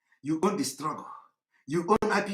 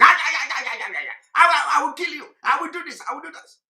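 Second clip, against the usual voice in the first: higher-pitched ranting threat, stammering at first; mock shouting; 5 semitones higher, 4 dB louder, faster than usual. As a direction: imitate a blustering activist's shouted threats. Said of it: "some of you that are shouting".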